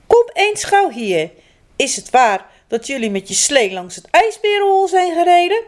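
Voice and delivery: stern parents. Acted. Angry parents question their children, stern scolding. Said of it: "waren ze heel erg boos".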